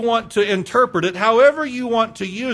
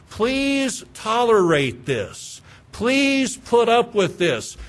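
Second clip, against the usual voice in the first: slow plea; 3 semitones higher, much slower than usual. Acted. Voicing the writer's plea.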